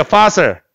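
fossil begun with a clear F sound; F sound demo. Shown as a demonstration. Teacher modelling for students to repeat, fossil with F sound. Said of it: "F 사운드야".

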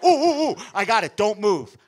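high, loud excited squeal; excited kid. Retold or imitated. Nephew gets an idea to draw uncle, loud high excited squeal. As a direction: burst with a kid's sudden idea.

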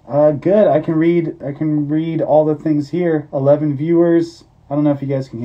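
muffled behind face helmet; through a full helmet. Real, not acted. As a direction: voice inside closed helmet. Seen 0: Full face helmet on until about 5.2s, then lifted off.

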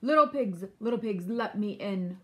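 lightly voiced wolf, loud at the start; a touch of a roar; mild storybook wolf demanding entry. A narrator's reading. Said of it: "roared the wolf".

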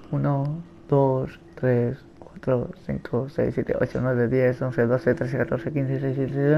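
soft counting under the breath; self-calming count. Real, not acted. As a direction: count quietly to settle your nerves. Counting stains to calm himself down. (contar bajito para calmarse)

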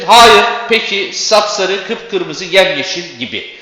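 loud, slow "Hayır, peki" with the first syllables hit; first-syllable stress. Shown as a demonstration. Teacher stressing first syllables of interjections and intensives. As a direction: punch the start of each word. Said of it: "ünlem ve pekiştirilmiş sözcüklerde ilk hecededir".

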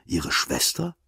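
plain reading voice

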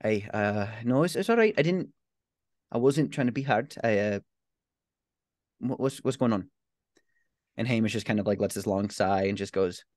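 aunt reassuring her grieving nephew; softened aunt. Acted. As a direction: comfort him, awkward but sincere.

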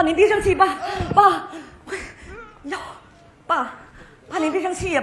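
loud, high, panicked calling of dad again and again; frantic calling. Acted. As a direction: shout to rouse a father who has fainted. Daughter-in-law frantically calls collapsed father. (惊慌地大声呼喊爸爸)

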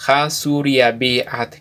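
"Ha Suriabi At" said slowly and clearly; slow careful model phrase. Shown as a demonstration. Teacher slowly modelling how to ask a name in Kʼicheʼ. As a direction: lay out "Ha Suriabi At" slowly for learners. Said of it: "Cuál es tu nombre".

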